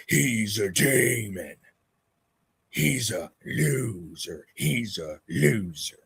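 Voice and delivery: slow, heavy mocking chant; lightly voiced slow mock rant; impression of Joe Zini. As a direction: drag the insults out like a ranting man. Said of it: "I'm gonna do an impression of him".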